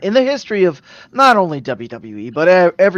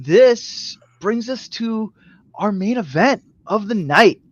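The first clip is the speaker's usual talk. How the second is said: slow, spaced-out main event introduction; measured ring-announcer delivery; announcer build-up; 2 semitones higher, slower than usual. Acted. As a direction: announce the title match grandly, pausing between names.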